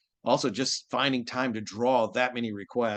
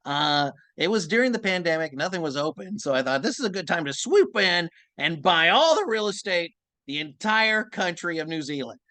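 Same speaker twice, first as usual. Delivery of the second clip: Usopp voice; 5 semitones higher than usual. Pretend. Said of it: "Usopp talking about New Zealand".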